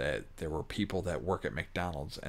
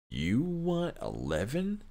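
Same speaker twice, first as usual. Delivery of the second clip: incredulous scoff; 8 semitones higher, slower than usual. Real, not acted. Scoffs at fast-food wage demand.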